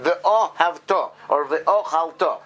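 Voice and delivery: ve'ohavta, ve'ochalta, slowly, drawing out the "o" and stressing the final "ta"; semi-stress on first letter. Shown as a demonstration. Teacher showing students the reading, semi-stress on the beginning. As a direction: lengthen the "o" lightly, main stress on the end of ve'ochalta. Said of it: "a mini or a semi stress lengthening".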